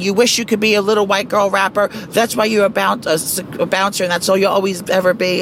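mild mock belligerent rant; half-hearted retold scream; belligerent yelling. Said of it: "scream belligerent".

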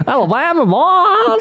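Southern drawl, played for laughs; Alabama accent. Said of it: "from Alabama?".

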